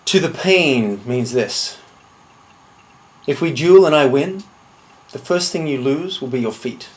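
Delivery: deliberate threat with long pauses; measured menace. Acted. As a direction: list each threat coolly, letting it land. Threatens a duel opponent, item by item.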